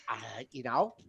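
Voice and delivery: usual speaking voice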